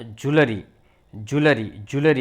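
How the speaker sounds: જ્વેલરી as "JOO-luh-ree"; correct pronunciation. Shown as a demonstration. Teacher modelling the word, correct pronunciation. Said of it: "એનો ઉચ્ચાર થાય".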